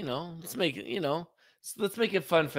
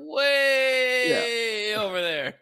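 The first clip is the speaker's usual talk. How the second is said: higher, slow, put-on snooty voice; mock the parking guy in a silly voice; mocking impression; 11 semitones higher, 5 dB louder, slower than usual. Teasing co-host by imitating the parking guy, mocking. Mocking the other guy's attitude.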